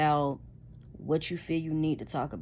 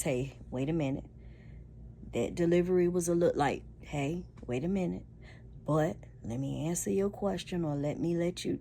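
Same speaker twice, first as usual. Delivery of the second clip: calm response; 3 dB quieter than usual. Shown as a demonstration. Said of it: "your delivery or your response".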